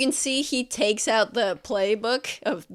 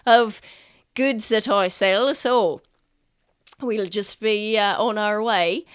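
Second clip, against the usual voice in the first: merchant voice; 5 dB louder than usual. Acted. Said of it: "It's like".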